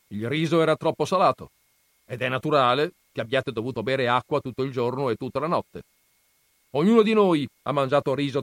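un nonno severo appena accennato, più forte. Acted. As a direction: interroga il ragazzo con autorità. Nonno spiega al ragazzo. (nonno che interroga il nipote, tono severo leggero)

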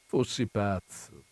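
slow, soft reassurance; gentle dismissal. Acted. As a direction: brush it off tenderly. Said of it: "attirandola dolcemente". (dolce e lento, rassicurante)

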